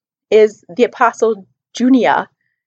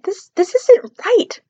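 quoting the author; 8 semitones higher, slower than usual. Retold or imitated. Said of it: "She's just looking at it and saying".

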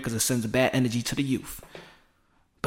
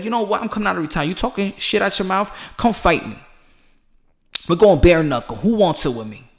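mock challenge; 3 semitones higher than usual. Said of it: "Oscar De La Hoya to be like".

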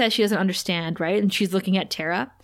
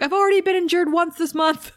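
mock scream; 9 semitones higher than usual. Anya screaming from behind the counter, mock panic. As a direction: shriek it like a cornered shop girl. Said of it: "is screaming".

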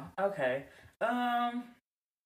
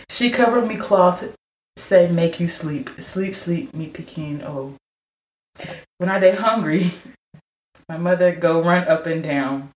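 put-on Nigerian accent; 11 semitones lower than usual. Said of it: "I hear your African accent".

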